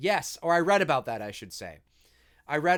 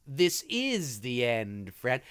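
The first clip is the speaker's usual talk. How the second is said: low, slow, deliberate comeback; imitated movie hero kiss-off; Andy's line; 5 semitones lower, much slower than usual. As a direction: answer with grim finality, stretching each word. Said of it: "I love this line from Andy".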